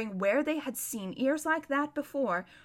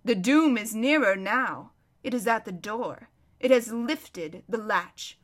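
slow, measured pronouncement; solemn warning. Acted. Lion telling the prince doom is near, solemn. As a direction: space the words out gravely.

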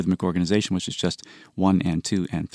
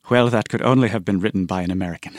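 put-on a half-hearted British accent, barely shifted; lightly imitating the British friend; bad British accent; faster than usual. Composer quoting his British friend in a bad British accent. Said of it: "I have to do a bad British accent".

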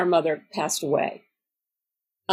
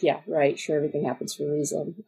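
low, quiet, fast sarcastic brush-off; eye-rolling sarcasm; 4 semitones lower, 5 dB quieter, faster than usual. Retold or imitated. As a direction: roll your eyes and rattle it off. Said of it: "you're like".

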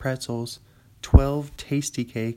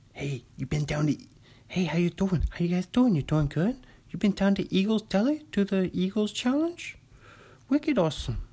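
put-on Boston accent; 7 semitones higher than usual. Boston local hawking the deli.

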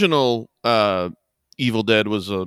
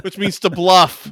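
quoted movie line; 6 semitones higher, 6 dB louder, slower than usual. Retold or imitated.

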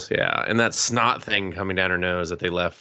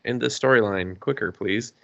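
urging; 4 semitones higher than usual. Retold or imitated. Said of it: "And I was like".

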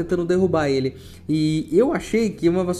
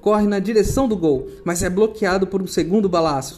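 live play-by-play; 2 semitones higher than usual. Acted. Reads quidditch match commentary.

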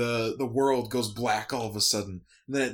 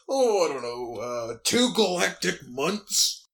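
lightly voiced monster; 5 semitones higher, 3 dB louder than usual. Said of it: "he goes".

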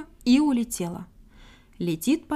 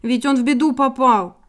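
despairing plea; 6 dB louder than usual. A narrator's reading. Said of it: "пришла в отчаяние Синичка".

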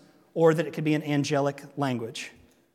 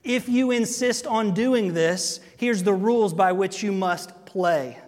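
slow and firm; slower than usual. Retold or imitated. A parent setting firm terms for a child, slow and deliberate. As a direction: lay down the rules slowly and deliberately. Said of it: "It was corrective".

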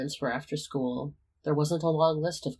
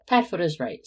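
stubborn, louder grudging admission; sulky, grudging agreement; mulishly; 3 semitones higher, 7 dB louder than usual. A narrator's reading. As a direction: concede it with a mulish grumble. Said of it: "Sirius said mulishly".

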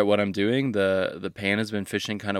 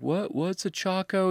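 much higher, puzzled imitation; mock bewilderment; 12 semitones higher, slower than usual. Angler baffled by the word Chaco, imitated in high confusion. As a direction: play the clueless stranger, pitched way up.

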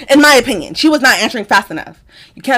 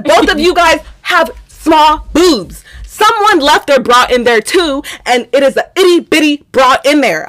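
raised, emphatic arguing; pointed accusation; 6 semitones higher than usual. Retold or imitated. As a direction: lay out the evidence against them with punch. Retold accusation of housemates.

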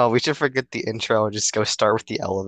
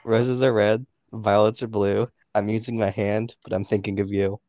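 poem recital. Pretend. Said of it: "you wanna hear a poem".

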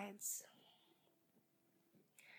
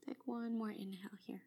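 soft spa whisper; 7 dB quieter than usual. Acted. Soft breath cue in fold.

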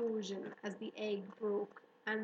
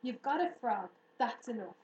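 commanding; 6 dB louder than usual. Acted. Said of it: "commanded Fern".

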